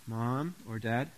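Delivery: soft, polite request; mild, courteous child's plea; really nice voice. Shown as a demonstration. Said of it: "in a really nice voice".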